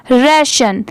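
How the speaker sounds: "राशन" with an open e and a sh sound; correct reading, rai-shan. Shown as a demonstration. Teacher repeats the word ending for learners, "राशन" said as reh-shun. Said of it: "राशन पढ़ेंगे".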